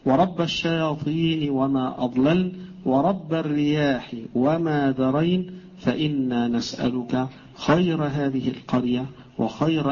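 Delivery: slow, drawn-out prayer recital; supplication recitation. Acted. Teacher reciting the village supplication for students, slow measured recitation. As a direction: recite each phrase deliberately, stretching the long vowels.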